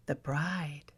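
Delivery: barely voiced, breathing the words; whispered correction. Sister corrects the husband in a poisoned whisper. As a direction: hiss the correction softly.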